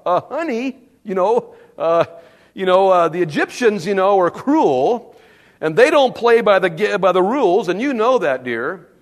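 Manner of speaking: sweet-talking husband. Retold or imitated. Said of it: "he turns to his wife and goes".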